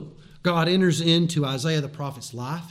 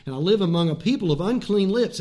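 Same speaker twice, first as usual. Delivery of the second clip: loud anguished woe is me; Isaiah lament; 2 semitones higher, 5 dB louder than usual. Retold or imitated. Prophet Isaiah crying out before God's holiness, loud lament. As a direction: cry out the confession. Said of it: "He says".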